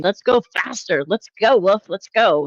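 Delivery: mock cheerleader. Streamer mimicking co-host egging on rant, mock cheerleader. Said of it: "like a cheerleader for it".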